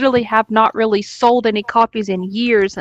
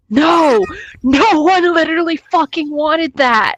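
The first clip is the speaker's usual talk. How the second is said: emphatic denial; 7 semitones higher than usual. Real, not acted. Heated rant against fake claim.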